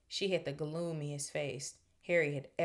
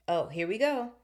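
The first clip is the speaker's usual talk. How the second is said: higher, louder bitter exclamation; 5 semitones higher, 6 dB louder than usual. A narrator's reading. Nick hearing the hunting horn, bitter. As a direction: groan it out with annoyance. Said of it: "said Nearly Headless Nick bitterly".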